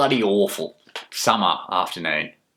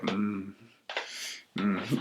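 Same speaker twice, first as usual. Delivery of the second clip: sensual relish moan; 10 dB quieter than usual. Retold or imitated. Usherette savouring her own touch, soft sensual moan. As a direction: hum it softly with sensual relish. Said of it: "with this very, you know, sensual relish".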